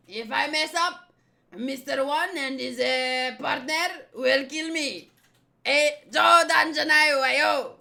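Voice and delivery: hammed-up French accent building to a loud demand; showy villain with a put-on French accent. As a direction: threaten underlings in a theatrical French accent. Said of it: "I'm gonna do a French accent for him".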